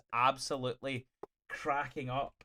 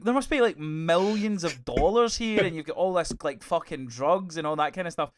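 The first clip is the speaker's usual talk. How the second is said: higher and louder, amazed at all the money; a character gasping at a stash of cash; astonished exclamation; 4 semitones higher, 5 dB louder than usual. Retold or imitated. A friend, shocked at the loot, asking loudly. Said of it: "And he's like".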